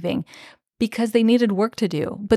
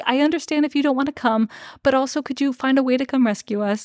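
higher, lightly imitated pleading; mock polite request; 4 semitones higher, faster than usual. Podcaster voicing Dora asking Elias for rescue, mock polite. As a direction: voice her tentative, roundabout ask.

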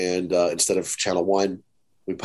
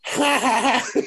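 knowing laugh; 14 semitones higher, slower than usual. Retold or imitated. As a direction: laugh like you know the joke already. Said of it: "laughing like he knows what this is for".

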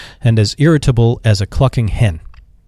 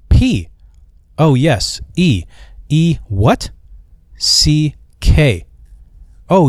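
exasperated phone yelling; 3 semitones higher, slower than usual. Acted. Peck spells his name to a mishearing butler, exasperated. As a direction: shout each letter at a deaf listener.

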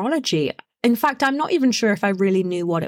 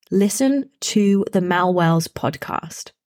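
slow, calm, knowing instruction; calm inner voice; slower than usual. Retold or imitated. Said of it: "It was very calm".

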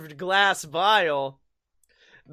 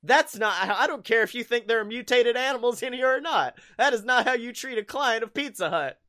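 mock indignant customer service; 5 semitones higher than usual. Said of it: "I'm like".

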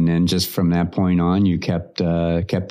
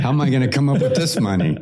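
higher, hurried mock fretting; rushed, pitched-up pretend worry; mock money panic; 6 semitones higher, faster than usual. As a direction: playfully imitate someone sweating over money. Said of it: "He's sweating bullets".

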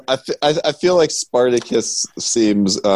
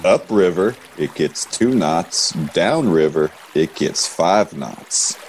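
put-on a much lower, slow old riverboat captain; a gruff old boat captain boasting about his boat, lower and slower; 9 semitones lower, 4 dB quieter than usual.

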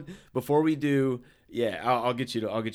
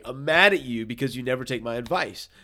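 retold friend; 5 dB louder than usual. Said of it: "Rod even tells Chris".

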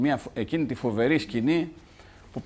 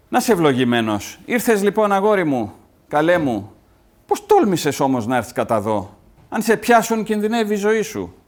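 mother greeting son; 7 semitones higher than usual. Acted.

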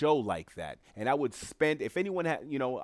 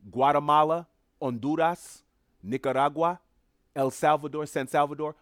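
louder, higher, punching each name; emphatic listing; 4 semitones higher, 5 dB louder than usual. Real, not acted. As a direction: rattle off each name with urgency. Listing countries with force.

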